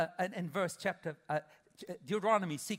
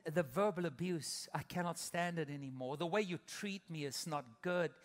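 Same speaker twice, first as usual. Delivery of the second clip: hurt spouse. Retold or imitated. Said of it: "the one would say to the other".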